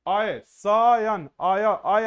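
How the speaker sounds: अय, शयन stretched out at a third of normal speed; very slow. Shown as a demonstration. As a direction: drag each syllable of शयन. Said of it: "धीरे धीरे बोलिए".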